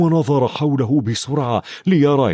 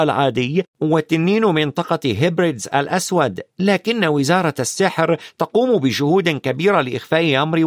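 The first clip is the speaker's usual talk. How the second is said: put-on higher-pitched boy explaining; lightly voiced knowing Ron; 6 semitones higher than usual. Ron tells Harry about British dragons, lightly voiced knowing boy. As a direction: explain matter-of-factly in a lightly raised boy's voice.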